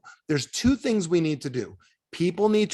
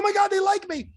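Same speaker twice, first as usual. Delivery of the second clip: high, gushing mock thrill; hammed-up delight, pitched way up; mock excitement. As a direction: squeal it like a smitten fan, teasing. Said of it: "You're just so excited".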